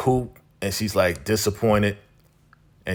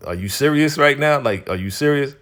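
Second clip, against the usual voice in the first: higher-pitched retold disbelief, easing off; 5 semitones higher than usual. Spencer questioning Coop's memory loss, mock incredulous. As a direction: protest in acted astonishment.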